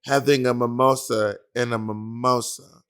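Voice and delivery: slow, unimpressed judge repeating a joke; belittling imitation of a judge, slowly fading; Michelle. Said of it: "Michelle be like".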